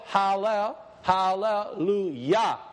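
HALLELUJAH drawn out slowly in parts; slow breakdown. Shown as a demonstration. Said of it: "if we say it slow".

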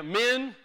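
"Min" as one short syllable; pronunciation demo. Shown as a demonstration. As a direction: say "Min" with no vowel after the n. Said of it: "pronounced here".

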